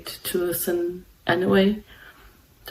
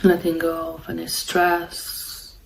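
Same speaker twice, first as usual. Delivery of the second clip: calm, unhurried meditation guidance with long pauses; guided meditation; 3 dB quieter than usual. Real, not acted. Meditation host guiding listeners to follow the breath, calm and unhurried. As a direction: guide them gently, leaving long silences between phrases.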